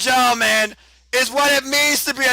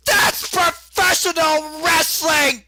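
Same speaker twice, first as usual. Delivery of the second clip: announcer shout; 5 semitones higher, slower than usual. Real, not acted. Closing call of the match.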